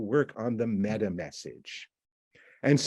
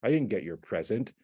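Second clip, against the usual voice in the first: curt, blunt refusal; abrupt; 3 semitones lower than usual. Acted. Boyfriend answering about the missing present, abrupt. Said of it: "it's quite abrupt".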